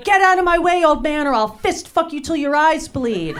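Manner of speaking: hammed-up road-rage screaming. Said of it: "And I screamed".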